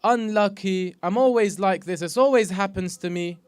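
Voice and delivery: a hint of someone moaning to God; mock whiny complaint. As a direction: mimic a mild self-pitying whine. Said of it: "by you saying".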